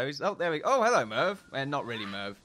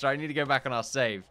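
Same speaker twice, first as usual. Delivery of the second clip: ordinary talk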